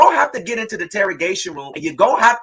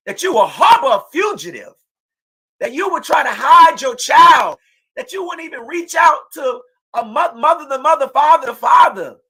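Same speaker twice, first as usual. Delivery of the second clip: angry shout; 4 semitones higher than usual. Real, not acted. Mother confronting her daughter's killers.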